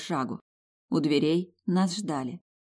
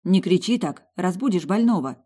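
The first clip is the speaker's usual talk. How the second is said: hushed scolding; 2 semitones higher, 4 dB louder than usual. Acted. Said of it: "шикнула я на подругу".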